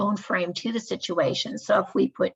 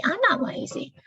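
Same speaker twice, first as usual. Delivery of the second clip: angry accusation; 11 semitones higher than usual. Acted. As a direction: snap it back at the coworker, much higher. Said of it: "they start screaming at each other".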